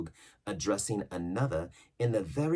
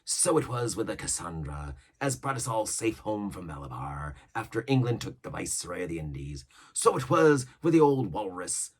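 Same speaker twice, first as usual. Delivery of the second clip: lightly voiced old pirate, a touch higher and louder; Long John Silver; 3 semitones higher, 5 dB louder than usual. Silver yarning to the crew about old ships, mild pirate voice. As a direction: spin the yarn like an old sea cook.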